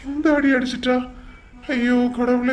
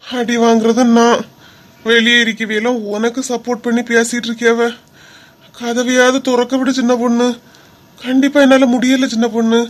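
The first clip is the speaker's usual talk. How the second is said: loud mock complaint; 4 dB louder than usual. Husband complains loudly, faking pain.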